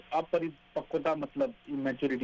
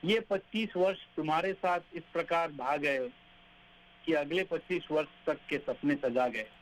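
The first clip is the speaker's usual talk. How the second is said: poem recitation. Acted.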